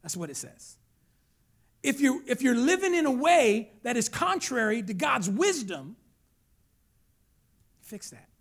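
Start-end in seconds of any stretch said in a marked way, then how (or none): 1.8-8.3 louder, insistent admonition; forceful preaching. Real, not acted. Preacher warning church about unwise living, forceful. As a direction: press each phrase on the congregation.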